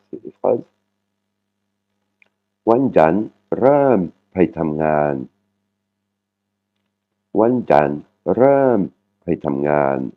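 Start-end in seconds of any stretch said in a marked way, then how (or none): 2.7-10.1 Wanjan ram pai tam ngan slowly, with "tam" dropping; falling "tam". Shown as a demonstration. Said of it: "uniquement la syllabe tam, qui est une syllabe qui tombe". (Wanjan ram pai tam ngan, lentement, « tam » qui tombe)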